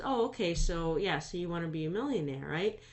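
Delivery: a hint of a doubtful mom; skeptical mother. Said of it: "and she says".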